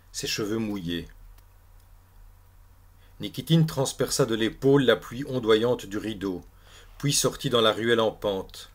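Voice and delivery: measured, projected read-aloud with clear pauses; literary story narration. A narrator's reading. Lit un récit à voix haute. (lecture littéraire à voix haute)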